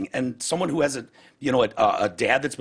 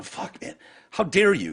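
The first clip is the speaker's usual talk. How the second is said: mock outrage; 6 semitones higher than usual. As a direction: hiss it, then rise into how dare you. Retold angry reply to friend.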